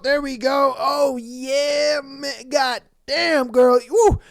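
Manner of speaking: hammed-up whooping and moaning over a dancer; mock ecstatic. Man throwing checks at a stripper, mock ecstatic. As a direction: play a thrilled big spender, with breathless woos.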